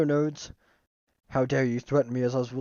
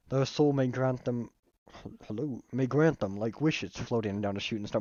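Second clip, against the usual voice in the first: put-on Southern accent. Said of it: "My accents are actual trash".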